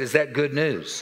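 preacher demanding a bigger answer from the congregation. Real, not acted. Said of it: "I said".

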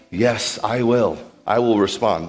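slow, lightly voiced yielding answer; the soul yielding to David's command; soul submitting. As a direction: answer humbly, giving in. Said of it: "the soul is saying".

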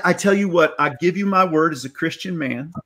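imitating a Southern gentleman's accent. Actor quoting his boss's promise, in a Southern accent. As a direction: give the quote a light Southern twang. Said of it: "when did he become Southern".

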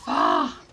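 sudden loud gasped "ah"; short, breathy yelp of fright; startled cry. Real, not acted. Startled by the horror game.

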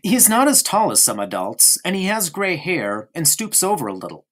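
put-on a small boy prattling on to his friend; young boy Bruno. Bruno voice again.

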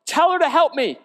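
loud, high, exasperated plea to the Lord; frustrated complaint. Retold or imitated. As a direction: demand help, she's had enough. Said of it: "She said".

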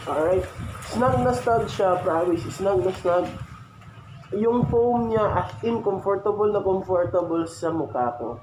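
speaking inside full-face helmet; wearing a helmet. Real, not acted. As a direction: through helmet and face mask. Seen 0: Full-face helmet worn, visor up, black face mask over mouth.

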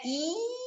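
soft high drawn-out I; I sorrindo; long I. Shown as a demonstration. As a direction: hold a smiling I and start rounding. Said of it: "vai fazer um som de I".

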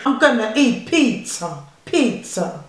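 lightly put-on Italian; Italian accent. Mum repeating her challenge turn, light mock Italian.

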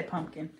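"pumpkin" with a clear m; pronounced with M. Shown as a demonstration. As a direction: say "pumpkin" as "PUMP-kin". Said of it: "with the M".

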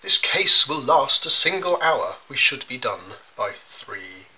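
a lightly acted barrister reading the verse; barrister pleading. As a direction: read it like a pompous barrister addressing the judge. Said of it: "this goes with the bit where he says".

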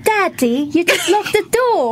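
slow, careful British accent. Shown as a demonstration. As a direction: put on a British accent for the ad line. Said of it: "เอาวีลองสำเนียง British".

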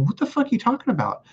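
high, baffled protest without shouting; incredulous, high-pitched comeback; retold incredulity. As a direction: replay your disbelief, pitch leaping up. Retold reaction to being blamed.

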